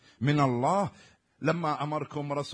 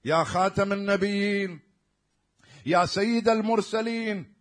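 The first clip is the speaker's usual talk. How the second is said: respectful address; 5 semitones higher, 6 dB louder, slower than usual. Shown as a demonstration. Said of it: "يقول له احتراما".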